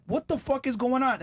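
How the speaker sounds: high, baffled what the fuck; baffled outrage. Acted. Shopper seeing random prices, high baffled outrage. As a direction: lose it in confusion. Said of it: "You're like".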